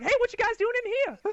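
hammed-up high drunk greeting; mock drunk brother. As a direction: play the clueless drunk kid barging in. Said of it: "he's like".

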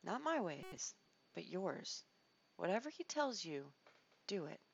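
bow your head and yield; humble Mary. Retold or imitated. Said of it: "she responds humbly and says".

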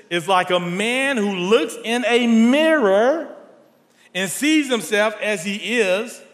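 slow, measured Bible reading; scripture reading. Acted. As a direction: read the verse slowly to the congregation.

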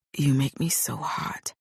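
slow, aching murmur; a hint of longing in the voice. A narrator's reading. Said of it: "The ache in his voice".

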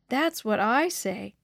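slow, mild moan. Acted. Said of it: "Sandra moaned".

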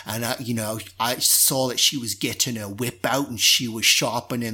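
lightly voiced Cockney pirate gossip; Cockney drow. Drow guard gossiping about the mistress, in light Cockney. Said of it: "this kind of Cockney accent".

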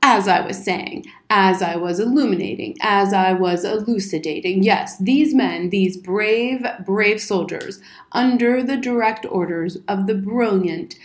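slightly emphatic military lecturing; a touch of blustering battle lecturer; lightly voiced pompous old soldier. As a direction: hold forth like a self-important officer.

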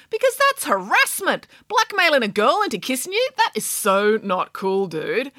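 high, huffy princess voice; outraged and prim; a spoilt princess scolding a frog; indignant princess. Acted.

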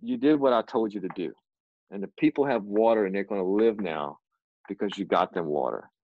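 steady low reassurance as God; God speaking. Retold or imitated. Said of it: "And he said, "Joel".

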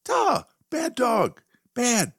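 high, loud scolding yell; yelling at the dog. Retold or imitated. Owner yelling at his dog on the couch, loud scolding. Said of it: "I yell".

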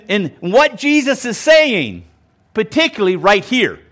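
ordinary delivery

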